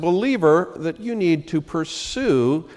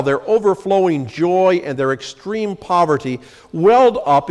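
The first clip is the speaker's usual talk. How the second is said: raised, measured reading of the passage; scripture reading; 3 semitones higher than usual. Acted. Pastor reads Paul's letter to the congregation, raised and measured. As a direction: proclaim the verses to the congregation.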